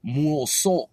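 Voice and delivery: muoso as two syllables, "mool-solt"; longer variant. Shown as a demonstration. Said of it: "Whereas here it's like".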